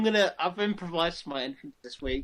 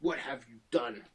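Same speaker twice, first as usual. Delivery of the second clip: attempted Indian accent; 3 semitones lower than usual. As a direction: confront a rival in a badly faked Indian accent. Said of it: "That's not even an Indian accent".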